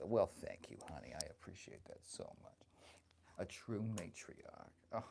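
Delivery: lightly voiced doting old grandma; sassy old granny, chatty and fond; grandma character. Streamer playing grandma, chatting with her viewers.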